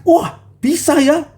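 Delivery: high, slow wondering Wah; amazed delight. Acted. Disciples watching Peter walk, amazed. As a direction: marvel that it works.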